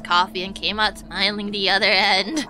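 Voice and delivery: put-on old lady. Streamer trying out Anna's vocal range, low old-lady voice. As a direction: drop your voice for a passable old woman. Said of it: "I guess sound like an old lady".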